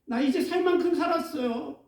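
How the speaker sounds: a mildly acted despairing prayer; Elijah's despairing plea. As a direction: give up, beg God to take you. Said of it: "엘리야가 로뎀나무 그늘 아래서 하나님 앞에 얘기합니다".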